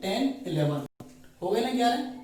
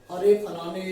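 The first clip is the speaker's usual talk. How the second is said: अरे फलाने called to someone far off, louder, last word stretched; teacher showing a long call to someone far away; 3 semitones lower, 4 dB louder than usual. Shown as a demonstration. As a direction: call across the street to a friend. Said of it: "तेज खींच के लेके जाते हैं".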